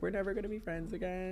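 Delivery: a hint of teenage huff; mock sulky teen. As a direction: pout it like a wounded teen. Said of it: "You're like".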